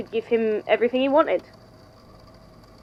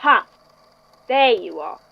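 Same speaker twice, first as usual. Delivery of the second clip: triumphant aha. Acted. Spots the creature it was seeking.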